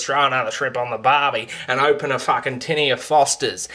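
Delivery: lightly hammed-up larrikin pitchman; mocking Paul Hogan. Sending up the old tourism ad in a mock ocker voice. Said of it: "Instead, its main focus was".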